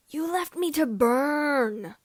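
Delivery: loud, slow furious scream. Acted. Vader accuses Kenobi, screaming slow and loud. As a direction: hurl it at him in rage. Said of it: "Vader screamed".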